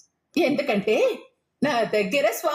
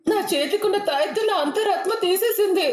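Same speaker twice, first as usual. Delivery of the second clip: frightened; 3 semitones higher than usual. Acted. Terrified alone at night.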